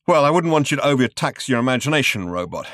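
mocking taunt. Zaphod taunting the robot.

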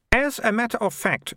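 put-on high-pitched, triumphant girl; Militia. Girl swinging her bag round, high and triumphant.

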